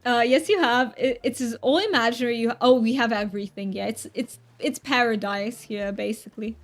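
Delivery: amateur English accent put on for fun; hammed-up mock British; terrible British accent. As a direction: do a playful, imperfect British accent. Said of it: "one more time British accent".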